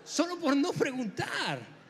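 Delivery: frase dicha entre risas; riendo. Real, not acted. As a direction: remata el chiste riéndose. (el predicador remata su chiste riendo)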